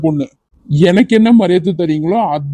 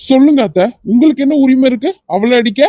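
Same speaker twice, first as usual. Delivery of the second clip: raised, higher, indignant challenge; angry confrontation; 6 semitones higher than usual. Acted. Vijay demanding the aunt explain slapping Vadivu, angry and raised. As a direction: throw the question at her, furious.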